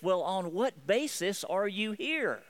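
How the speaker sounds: drawn-out, mildly exasperated demand; frustrated supervisor. Acted. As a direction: act out an angel running out of patience. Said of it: "And eventually in frustration".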